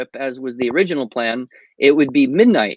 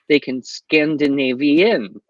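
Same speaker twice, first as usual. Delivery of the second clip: slow punchline; slower than usual. Acted. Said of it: "Okay, so".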